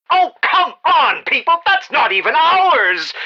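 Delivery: fed-up aside aimed away from the mic; exasperated call-off. Acted. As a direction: groan at the workers off to the side. Calls off to staff, exasperated.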